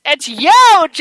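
Jersey "huge" with the H dropped; Jersey accent. Acted. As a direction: punch it in a playful Jersey accent. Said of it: "the Jersey accent".

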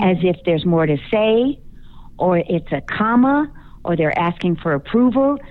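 "say", "comma" and "approval" each lifted at the end; uptalk. Shown as a demonstration. Coach illustrates millennials' annoying habit, uptalk on "say", "comma", "approval". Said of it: "with an upward inflection".

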